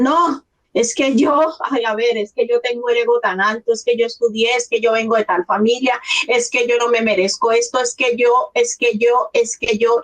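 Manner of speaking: lightly voiced objector piling up excuses; proud newcomer protesting. Imitating proud migrants refusing the process, protesting excuses. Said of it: "llegan a un lugar y dicen".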